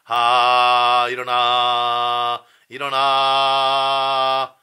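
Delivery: loud, slow, drawn-out calls; wake-up call. Shown as a demonstration. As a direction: rouse a sleeper loudly. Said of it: "약간 이런 느낌이라고 생각을 하란 말이야".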